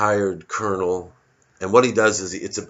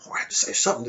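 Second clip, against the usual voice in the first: proud soldier; 3 semitones higher, much faster than usual. Retold or imitated. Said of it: "now he's all proud".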